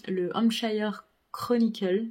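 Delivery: slow, careful attempt at an English accent. Shown as a demonstration. Booktuber reads an English newspaper title, attempting an English accent. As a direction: try the English name in an English accent. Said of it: "Désolée pour mon accent".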